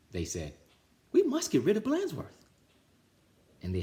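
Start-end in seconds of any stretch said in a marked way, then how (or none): 1.1-2.5 high, louder declaring; high loud vow; determined kids. Acted. Ringleaders plotting.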